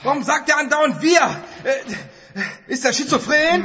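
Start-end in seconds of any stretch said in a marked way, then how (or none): 1.6-3.6 laughing. Acted. Er lacht.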